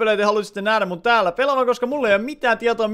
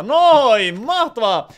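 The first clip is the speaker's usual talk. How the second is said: a louder triumphant cheer; relieved cheer; 3 semitones higher, 6 dB louder, much slower than usual. Real, not acted. Streamer finally sending the party invite, excited cheer. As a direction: celebrate getting it to work at last.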